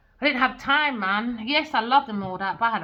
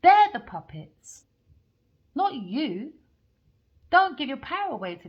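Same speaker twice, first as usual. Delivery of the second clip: emphatic preaching; 4 semitones higher than usual. Real, not acted. Preaching to viewers about tricksters.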